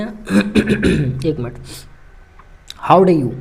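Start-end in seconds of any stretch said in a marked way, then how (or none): 2.9-3.3 "dare" rushed into "do", giving How do you; rushed mispronunciation. Shown as a demonstration. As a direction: say it fast and sloppy, "How do you". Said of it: "ऐसे बोल जाते हैं जल्दी जल्दी में". (dare को जल्दी में "डे" बोलना)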